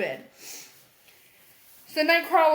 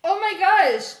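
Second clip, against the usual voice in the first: mock excited; 7 semitones higher, 7 dB louder than usual. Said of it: "and she's like".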